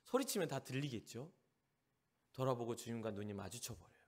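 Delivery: normal talking voice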